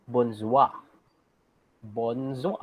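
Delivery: teacher repeats bonjour for class; slow model pronunciation. Shown as a demonstration. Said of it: "but this one is".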